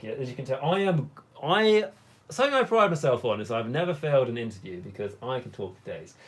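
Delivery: ordinary talk, nothing marked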